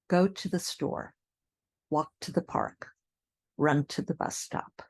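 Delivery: "to the" reduced between stressed words; squished short words. Shown as a demonstration. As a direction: lean on verb and noun, squish "to the". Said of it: "when you have these short words".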